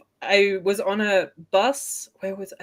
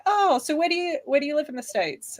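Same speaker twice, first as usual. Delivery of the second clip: quoting the attendant; 9 semitones higher than usual. Retold or imitated. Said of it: "he's like".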